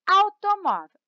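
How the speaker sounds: Automóvel said high and loud, falling from MÓ; teacher's clear Automóvel, stressed on the next-to-last syllable, mó; stress on penultimate syllable. Shown as a demonstration. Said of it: "ela é penúltima".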